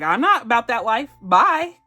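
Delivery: duck voice. Retold or imitated. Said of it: "It's like".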